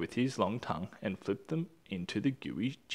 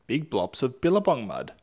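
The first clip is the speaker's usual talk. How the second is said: hearty suggestion; 3 semitones higher, 6 dB louder than usual. Acted. Platypus urging mud.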